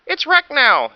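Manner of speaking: high, loud angry yell. Acted. Dinosaur yelling about wrecked tower, high loud. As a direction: shout about the ruined tower. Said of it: "yelled the Pterodon".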